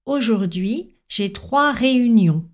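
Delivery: réunions with its last syllable said fully and clearly; clear sentence ending. Shown as a demonstration. French teacher showing learners the model sentence, réunions clearly finished. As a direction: articulate the end of réunions crisply. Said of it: "prononcer très clairement la dernière syllabe".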